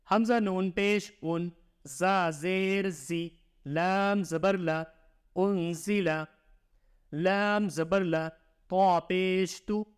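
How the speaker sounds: slow sing-song letter-by-letter reading; measured teacher's drill, syllable by syllable; Qaida spelling recitation. Shown as a demonstration. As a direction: chant each letter and vowel sign for the pupil.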